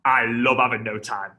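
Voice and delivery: exaggerated laughing glee; mock delight. Prospect absurdly loving having no time, mock delight. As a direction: gush it through a hammed-up laugh. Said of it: "No one ever goes".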